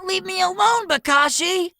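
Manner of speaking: put-on hurt boy yelling at his teacher; angry yell. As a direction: snap at him and run. Boy running off in anger.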